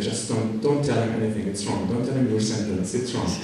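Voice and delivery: soft, urgent undertone; hushed warning. Retold or imitated. Warning his friend before the border officer, hushed. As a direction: warn him under your breath.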